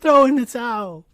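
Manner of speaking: loud, high, desperate cornerman yell; stammer, then holler to end the fight; acted movie-style pleading shout; Rocky clip shout. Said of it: "Insert that Rocky clip".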